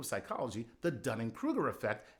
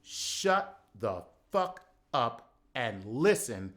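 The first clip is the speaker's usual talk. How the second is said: slow, louder, each word hit hard; slow emphatic; 3 semitones lower, 4 dB louder, slower than usual. Real, not acted. Comic telling pundits off, slow and firm. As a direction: lay it down deliberately. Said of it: "Let me say this succinctly and clearly".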